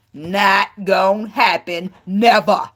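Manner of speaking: lightly imitating Nunu putting on an accent in ATL; Nunu's movie accent. Quoting Nunu's fake accent from ATL, mock haughty. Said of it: "when Nunu was making that accent".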